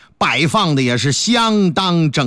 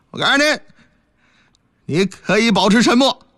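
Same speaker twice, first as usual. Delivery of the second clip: official police jargon; 3 semitones higher than usual. Acted. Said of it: "这个官方语言呢".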